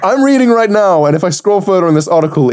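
laughing mockery. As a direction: laugh while mimicking the co-host's article reading. Mock-reading to parody co-host's article.

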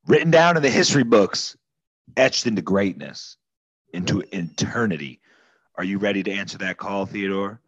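lightly voiced patriotic officer, rousing; grand recruiter speech. A hint of a corporal recruiting Theodore, rousing pitch. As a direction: sell him on heroism like a recruitment ad.

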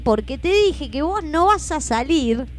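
emphatic, drawn-out delivery, word by word; slow dramatic telling. Real, not acted. Telling how dad dragged brother to the shower, slow and emphatic. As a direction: stretch every blow of the story. Climax of retold capture and cold shower.

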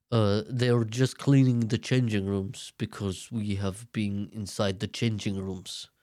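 slow, imitated Arab-accented English; Fazil's Arab accent. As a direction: explain slowly in a put-on Arab accent. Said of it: "I don't know why it's an Arab accent".

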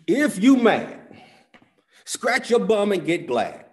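mom's saying, sung out loud and high, slowly; mom's old saying. Retold or imitated. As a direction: belt out mom's rhyme, laughing. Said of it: "what my mom used to tell me".

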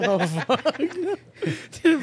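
high, laughing "Dude". Real, not acted. Host cracks up at his friend's cursing, laughing high. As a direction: burst out laughing on the word.

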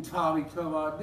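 jeering repeat of her plea; mocking angry echo. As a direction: sneer her own words back at her. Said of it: "I was intense".

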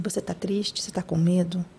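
baixinho e mais grave, com cuidado; acolhimento suave. Retold or imitated. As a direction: pergunte com delicadeza a quem chora. Acolhe mãe que chora no voo. (acolhedor, bem baixinho)

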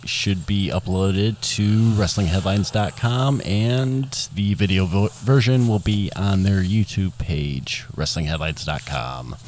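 radio announcer read. Acted. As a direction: read it like an old AM radio host. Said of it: "In my A M radio voice".

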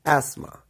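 एस्मा, two beats, no "tha"; English pronunciation. Shown as a demonstration. Teacher answering "क्या बोलते हैं?", English pronunciation. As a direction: drill एस्मा as "as-maa", falling. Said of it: "था की sound इसके अंदर नहीं".

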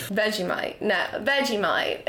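amateur Australian accent; Australian accent attempt. Shown as a demonstration. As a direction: try to channel an Australian accent. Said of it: "Let me try and channel Australia".

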